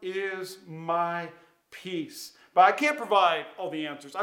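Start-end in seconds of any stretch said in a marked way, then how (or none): 0.0-2.4 slow declaration. Shown as a demonstration. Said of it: "build an altar today that says".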